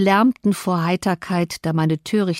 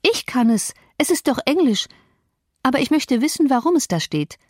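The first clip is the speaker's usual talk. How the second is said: a higher, lightly voiced young girl; a proud girl showing off, voiced higher; Cathy boasting to Hareton that she can read it, lightly voiced higher; girlish Cathy; 7 semitones higher than usual. A narrator's reading. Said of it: "rief Cathy".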